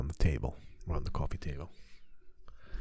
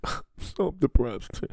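lightly voiced gloomy deer, higher, slow; mopey deer voice; 7 semitones higher, 6 dB louder, slower than usual. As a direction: play a glum deer sighing it out. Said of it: "a deer in my yard that was like".

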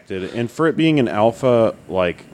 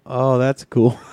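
laughing; 4 semitones higher, slower than usual. Retold or imitated. Awkward reply, laugh heard.

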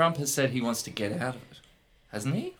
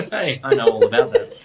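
put-on Russian accent; 4 semitones higher, 11 dB louder than usual.

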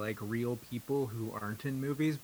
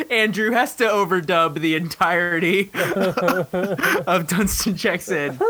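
excited; 6 semitones higher, 9 dB louder than usual. Real, not acted. Gleeful challenge to co-host.

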